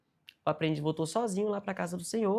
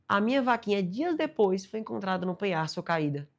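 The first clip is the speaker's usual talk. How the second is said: put-on much higher, louder eager old man; 3 semitones higher, 4 dB louder than usual. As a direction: burst out like an excited old man. Old man telling story. (senhorzinho empolgado contando novidade)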